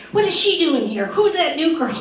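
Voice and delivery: high, loud catty diva quote; mock a snooty star sneering at the newcomer; imitating a starlet sniping about the new girl; a pop singer. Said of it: "Madonna's like".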